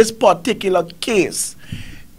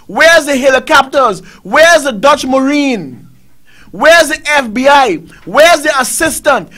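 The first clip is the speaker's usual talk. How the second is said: loud, pounding questions, every one hit on where; angry demands; 3 semitones higher, 7 dB louder than usual. Real, not acted. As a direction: hammer each where is like an outraged host. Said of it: "I'm pissed off tonight".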